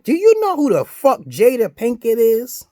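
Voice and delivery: loud, high outraged yell; furious shout. Real, not acted. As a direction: blast the question at him. Ranting at Snoop.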